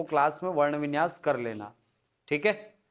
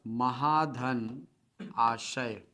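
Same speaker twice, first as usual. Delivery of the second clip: dictation; 5 semitones lower, 4 dB quieter, much slower than usual. Shown as a demonstration. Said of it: "चलो लिखो question पहला".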